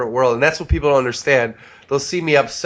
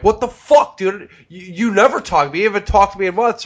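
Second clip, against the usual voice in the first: pissed-off rant; 6 semitones higher than usual. Retold or imitated. Snapping at a friend who went silent, mock angry and fast. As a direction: fire it back like you're fed up. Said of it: "I was pissed off".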